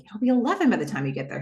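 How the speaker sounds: rattled off fast, leaning on eleven; fast, mildly mocking repeat; mocking echo. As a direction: parrot his line back quickly with a mild mock. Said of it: "It's like".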